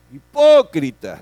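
loud, slow, cutting accusation; denouncing shout. Retold or imitated. Jesus shouting at the scribes, loud and slow. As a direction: hurl the word at them. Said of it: "Se las dio con un tonito".

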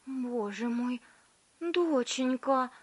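high, slow gasp; mother sees her daughter change; alarmed mother. A narrator's reading. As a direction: throw up your hands in alarm. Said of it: "вдруг всплеснула руками".

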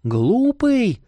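high indignant outburst; flare up. Acted. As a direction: snap at him in a flare. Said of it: "взвилась она".

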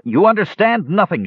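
high, loud angry shout; young elf yelling in rage. Acted. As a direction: hurl it back at him in fury. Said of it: "shouted the elf".

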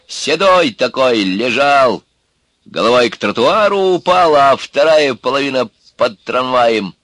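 slow, loud, emphatic convict's tale; storytelling urka. Acted. Urka tells cellmates about the tram killing, relishing it. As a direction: draw out each gruesome detail loudly.

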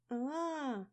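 high, loud mock baby wail; baby's wail. A narrator's reading. Baby yelling on cue into the phone, wailing. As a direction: belt out a howling infant cry. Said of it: "заорал мой малыш".

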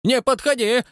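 high, thin, hoarse shout; frightened watchman yelling thinly; thin hoarse cry. A narrator's reading. Scared night watchman cries out at the intruder, thin and hoarse. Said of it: "тоненько и хрипловато выкрикнул он".

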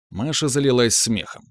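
usual speaking voice

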